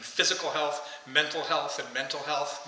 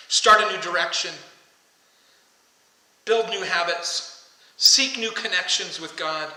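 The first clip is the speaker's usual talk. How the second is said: loud calling; 2 semitones higher, 6 dB louder than usual. Retold or imitated. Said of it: "Jesus in a loud voice is calling us".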